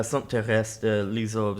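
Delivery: "Saint Therese de Lisieux" said with a French accent. Real, not acted. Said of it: "you just said it in a, that crazy way. Is that just your French accent?".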